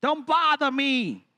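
slow, drawn-out dismissal; mock-weary plea to be left alone; Western brush-off. Jesus declining to get involved, drawn-out dismissal. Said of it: "It's like being in the West".

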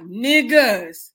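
loud, drawn-out address to friends; exasperated call-out. Acted. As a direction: stretch it out in mock exasperation. Acting out exasperated text to friends.

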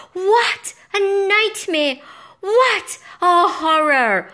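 high, loud, slow wail of horror; drawn-out dramatic exclaiming; horrified exclamation. A narrator's reading. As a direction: cry out in melodramatic dismay. Narrator exclaims after near fall.

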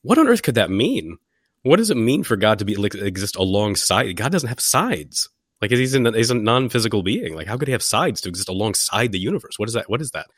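high-pitched, incredulous mock objection; Paul Helm objecting. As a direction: play a baffled philosopher, pitched well up. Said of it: "Paul Helm, is gonna come along and go".

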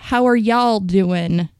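slow, lightly Southern-accented question; a touch of Southern drawl; slight Southern accent. Shown as a demonstration. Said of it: "you're doing it with an accent".

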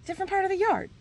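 high, fast pleading; exasperated mom. Retold or imitated. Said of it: "I'm like".

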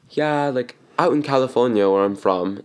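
lightly imitated British accent. Retelling a customer from California, in a light British accent. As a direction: quote her with a touch of British. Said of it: "but with a British accent".

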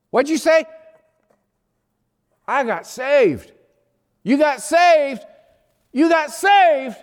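can't believe what you just heard; stunned disbelief. Retold or imitated. Stunned brother on the phone.

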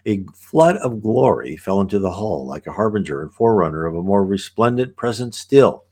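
put-on measured reading of an old visionary text; unhurried scripture-like reading; reading aloud. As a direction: read it as a solemn, flowing passage. Reads passage aloud between comments.

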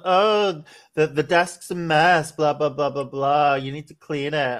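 lightly imitated nagging partner; half-hearted mock scolding; mock annoyed partner. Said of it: "my partner got really mad and was like".

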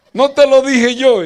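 high, loud, smug I-told-you-so; mock told-you-so. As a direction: rub it in with a high sing-song. Wife repeats told-you-so, higher.

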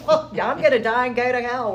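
recalling her plea to the visitor, laughing. Retold or imitated. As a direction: chuckle out the grim line. Laughing at her old despair.

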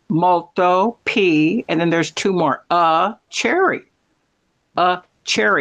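"Molto, P, A cherry" in separate slow pieces; broken into syllables. Shown as a demonstration. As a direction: teach "Molto, P, A cherry" bit by bit. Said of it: "if you break it to syllables".

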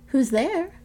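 wolf's hoarse voice. Acted. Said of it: "the hoarse voice of the wolf".

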